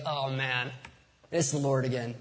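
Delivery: a mild tired sigh of "again"; weary mock exasperation. Preacher's own joking take on John's line, mildly weary. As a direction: shrug it off like a routine nuisance. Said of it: "but I was like".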